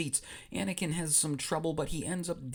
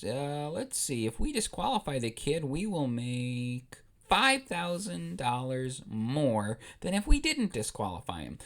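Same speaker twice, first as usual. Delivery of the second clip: chief bookie. Acted. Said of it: "and he says".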